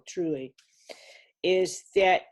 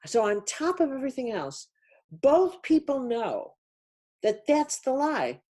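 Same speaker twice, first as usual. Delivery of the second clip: rising passion; 5 semitones higher than usual. Real, not acted. Passionate build on lies, souls.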